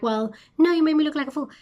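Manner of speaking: mock her whiny accusation; a hammed-up sneer as Delilah; mocking imitation. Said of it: "being like".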